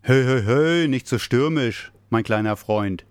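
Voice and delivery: loud, good-humoured protest; laughing call. A narrator's reading. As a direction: call out, amused, fending off a hug. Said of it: "rief Rudolf lachend". (lachend gerufen)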